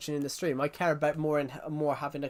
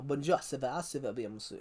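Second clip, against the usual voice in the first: mock French accent; 2 semitones lower, 4 dB quieter than usual. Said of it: "I can do French as well".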